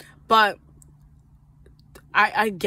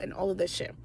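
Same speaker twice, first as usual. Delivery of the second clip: whispered aside, breath only; 8 dB quieter, faster than usual. Real, not acted. Trailing aside.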